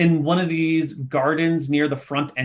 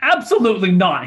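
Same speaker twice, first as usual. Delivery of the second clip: a touch louder, curt little no; firm gnome refusal; 4 semitones higher, 4 dB louder than usual. Acted. Gnome refusing the goblin who wants to keep him, firm. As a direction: shut the request down. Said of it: "he says and steps back inside".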